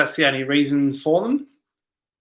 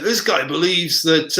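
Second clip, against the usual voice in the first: slow attempt at a Yorkshire accent; slower than usual. Streamer quoting a video maker, slow Yorkshire accent. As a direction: imitate a Yorkshireman in a rough accent. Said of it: "the Yorkshire accent".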